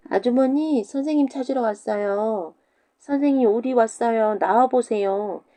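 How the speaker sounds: put-on high child voice calling out; calling children. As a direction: call through the door like cheeky kids. Pupils calling at dawn. (과부 집 앞에서 부르는 아이들 목소리)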